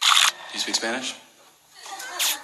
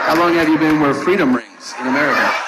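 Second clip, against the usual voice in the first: mock announcer. Grandiose patriotic phrasing.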